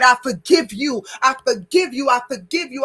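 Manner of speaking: forgiveness shout. Shown as a demonstration. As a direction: call it out, releasing the hurt. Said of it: "Scream it".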